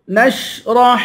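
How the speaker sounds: نشرح with the final ح fully breathed out; sounded final ha. Shown as a demonstration. Teacher showing the final letter, نشرح with an audible ح. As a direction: chant نشرح, clearly releasing the ح. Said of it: "ہا کی آواز نکال کے پڑھیں گے".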